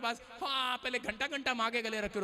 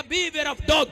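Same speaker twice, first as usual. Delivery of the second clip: mock warning sign; 3 semitones higher, 10 dB louder, much slower than usual. Shown as a demonstration. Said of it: "Bible quote shouted".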